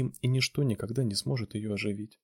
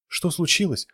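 high, loud incredulous echo; outraged cry; 7 semitones higher, 5 dB louder than usual. A narrator's reading. Irina flings Ivan's question back at him, high outcry. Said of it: "выкрикнула она".

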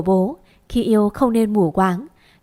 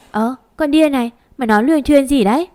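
higher, louder and fast; flustered scolding; 4 semitones higher, 4 dB louder, faster than usual. Acted. Châu flusters at her sister for telling grandma, higher and quick. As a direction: caught out and scrambling to shut her up. Sister exposes Châu's boyfriend.

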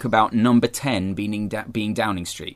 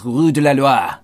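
French accent; 4 dB louder than usual. Shown as a demonstration. Naming the Brussels address to a co-host, French accent. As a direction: say it as the French would.

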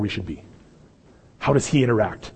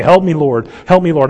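louder, higher cry of "Help me, Lord"; loud desperate plea; 5 semitones higher, 10 dB louder than usual. Retold or imitated. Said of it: "on the side of the woman going".

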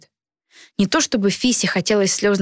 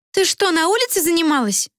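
put-on higher, surprised girl voice; friend's voice; 10 semitones higher than usual. A narrator's reading. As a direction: girlfriend asking in disbelief.

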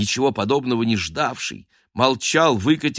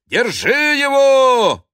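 high, slow, loud cry to catch him; shouting during the chase, high and loud; 6 dB louder, slower than usual. Acted. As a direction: yell after the thief.

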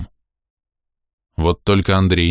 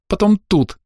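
put-on high tearful child voice; sobbing girl pointing out where; 13 semitones higher than usual. A narrator's reading. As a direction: keep crying out the memory.

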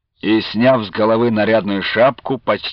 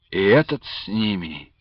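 inner thought; 4 semitones lower, 6 dB quieter than usual. A narrator's reading. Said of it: "подумал атаман".

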